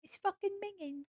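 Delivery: bad UK accent. Streamer amusing themself with the video line, quiet bad British accent. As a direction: squeak it quietly in a poor UK accent. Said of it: "horrible accent".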